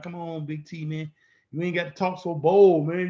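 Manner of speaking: hushed, nervous plea to Big T; scared friend pleading. Retold or imitated. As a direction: beg him to tone it down, half-whispered. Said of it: "You be sitting over there shaking in your boots, talking like".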